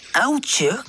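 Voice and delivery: surprised. A narrator's reading. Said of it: "zegt Pip verbaasd".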